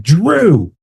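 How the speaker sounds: sharp scolding shout of a name; scolding call. Retold or imitated. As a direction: call the boy out, embarrassed. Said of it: "And they're like".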